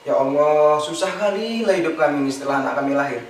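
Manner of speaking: low, muttered lament to oneself; grumbling complaint. Retold or imitated. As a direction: grumble wearily under your breath, pitched low. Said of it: "Ngeluh-ngeluh nggak jelas gitu". (keluhan menggerutu bernada rendah)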